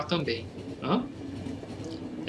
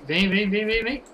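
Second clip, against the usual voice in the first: rising, higher come-on; taunting call; 5 semitones higher, slower than usual. Real, not acted. Player baiting the creature toward him, excited taunt. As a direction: egg the monster on to come closer.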